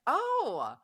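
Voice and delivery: high-pitched mock greeting, teasing; kinda sarcastic. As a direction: retell it as a sing-out, lightly sarcastic welcome back. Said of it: "I said it kinda sarcastically".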